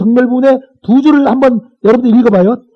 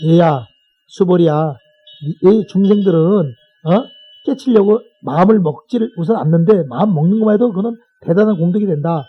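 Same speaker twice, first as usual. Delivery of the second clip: lower, plain-spoken Buddha addressing a disciple; a hint of a master explaining simply to his pupil; lightly voiced Buddha; 5 semitones lower than usual. Buddha explains simply to Subhuti about beings setting their minds, lightly voiced role. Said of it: "부처님이 이런 거죠".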